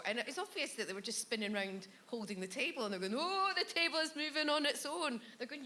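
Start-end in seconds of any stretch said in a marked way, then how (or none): 3.2-5.2 high, sing-out fake amazement; mock-spooked witches. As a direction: imitate witches faking wonder, pitched well up. Witches' fake wonder, mocked.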